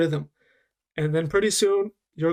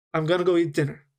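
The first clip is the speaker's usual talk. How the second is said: "I'm gonna go eat dinner" at normal pace, words joined; natural linked speed; much faster than usual. Shown as a demonstration. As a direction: say it the everyday native way. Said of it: "native rhythm".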